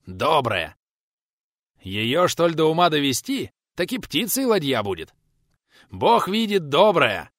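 a touch of joyful enthusiasm; delighted shout. A narrator's reading. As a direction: praise the boat with rapture. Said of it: "С интонациями, в которых угадывался восторг".

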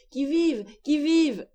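high-pitched challenge, falling at the end; calling out. A narrator's reading. Father groping toward his family in the dark, calling out. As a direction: cry it high without much extra volume. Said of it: "en criant".

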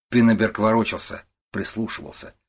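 ordinary delivery

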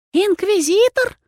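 high, slow, astonished mirror voice; a startled talking mirror gasps the word; surprised loud whisper. A narrator's reading. The mirror, startled by the visitor, high surprised whisper. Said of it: "громко прошептало удивлённое зеркало".

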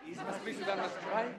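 soft, distant repeat of the words; hushed echoing question; quiet echo. Acted. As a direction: murmur it back as if puzzling it out. Prince echoes riddle quietly.

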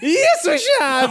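high, slow, drawn-out agreement; hammed-up wicked delight; gleeful accomplice. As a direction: relish joining the plot, half laughing. Fanny accepts the sinister invitation.

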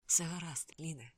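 soft, gentle reassurance; smiling reassurance. A narrator's reading. Friend soothes shaken Lin after the embrace, softly reassuring. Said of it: "всміхнувся він".

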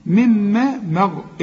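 مغ- drawn out slowly with a heavy غ; slow demo of the heavy ghayn. Shown as a demonstration. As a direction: stretch مغ- and thicken the غين. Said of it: "الغين هي المفخمة".

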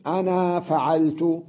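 "أنا" said with a long a, slowly; long ana. Shown as a demonstration. Teacher showing students how the alif of "أنا" is pronounced. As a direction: sound the alif of "أنا" in full and slow down. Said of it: "ينطق بالألف".

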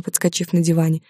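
ordinary delivery

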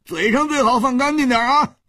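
red-faced, push back hard; a flustered man defending his hosts, high and strained; indignant outburst. Acted. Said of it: "涨红了脸说".

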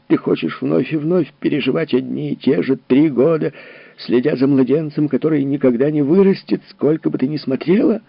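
high, loud, cutting anger; harsh berating. Acted. Husband rages at his grieving wife. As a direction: tear her hopes apart.

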